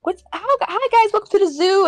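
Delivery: high, chirpy mock zookeeper voice; imitating old lady. Retelling the seventy-year-old monkey specialist, high chirpy greeting. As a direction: pitch it up like a cheery old zookeeper. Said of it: "she's like".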